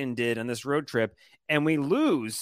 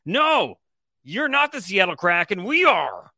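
louder, higher cocky declaration; power trip yelling; 3 semitones higher, 4 dB louder than usual. Acted. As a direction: crow it like a champion. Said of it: "I'm just feeling this power trip right now".

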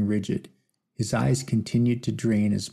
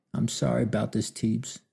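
through tears. Acted. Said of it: "he said through his tears".

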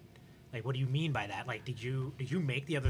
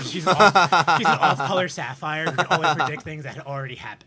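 excited; 3 semitones higher, 12 dB louder than usual. Real, not acted. Gleeful loud description.

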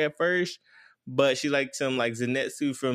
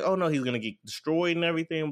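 lightly acted worry, higher and quick; a quick, higher retold "oh no" with mild panic; mock alarm; 4 semitones higher, faster than usual. Princess alarmed for the guy.

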